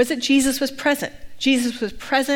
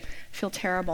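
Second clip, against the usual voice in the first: retold feeling terrible; 3 semitones lower, 10 dB quieter than usual. Retold answer from sick friend.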